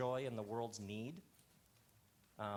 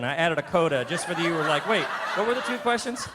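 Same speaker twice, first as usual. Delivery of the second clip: laughing; 4 semitones higher, 13 dB louder, faster than usual. Real, not acted. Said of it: "laughing at the slow burn".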